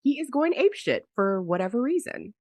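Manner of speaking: hoarse voice from a cold; talking through a cold, throat raw; sick voice. Real, not acted. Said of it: "your sick voice is sexy".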